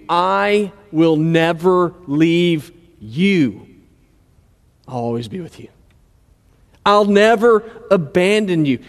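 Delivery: slow, gentle reassurance; slow tender promise. Acted. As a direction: say it like a promise to a frightened friend. Quoting God's promise slowly.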